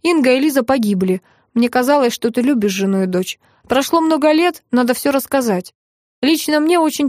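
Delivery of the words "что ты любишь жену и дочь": ordinary delivery, nothing marked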